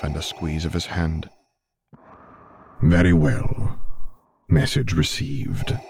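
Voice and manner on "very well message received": lightly voiced dark lord, softened; Vader's murmur. A narrator's reading. Vader conceding to Luke, lightly voiced murmur. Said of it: "Vader murmured".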